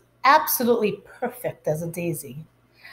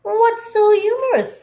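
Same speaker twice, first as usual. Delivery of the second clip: teacher's question; 13 semitones higher, 4 dB louder than usual. Acted. Teacher voiced in story.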